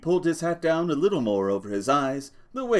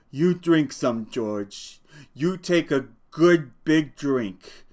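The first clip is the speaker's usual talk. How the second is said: happy; 4 semitones higher, 5 dB louder, slower than usual. Acted. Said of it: "He smiled happily".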